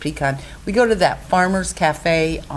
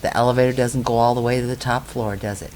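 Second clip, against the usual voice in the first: imitating dad; 5 semitones lower, 4 dB quieter than usual. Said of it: "he'd look at me and he'd say".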